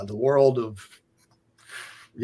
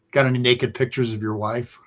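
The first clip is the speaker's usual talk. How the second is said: deadpan; 4 dB quieter than usual. Retold or imitated. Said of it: "he's so deadpan".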